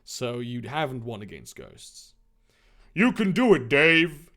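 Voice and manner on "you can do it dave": raised-voice sideline yell. A narrator's reading. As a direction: call out encouragement to a friend. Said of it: "Tarzan yelled from the sidelines".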